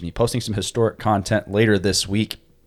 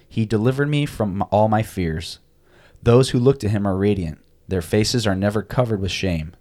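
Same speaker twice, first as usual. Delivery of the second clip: scripture reading. Acted. Podcast co-host reads Psalm thirty-four for the listeners, reverent reading. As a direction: read the psalm aloud with calm reverence.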